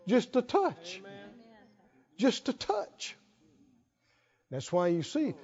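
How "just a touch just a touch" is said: softly, almost to themselves; gentle, quiet repetition; hushed emphasis. Real, not acted. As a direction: drop the volume to show how little it takes. Preacher marvels how little it takes.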